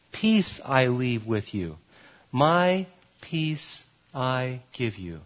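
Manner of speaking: slow, gentle reading of Jesus' words; tender scripture reading. Acted. Pastor reading Jesus' promise to the congregation, slow and tender. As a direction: let each word of the promise settle, slowly and softly.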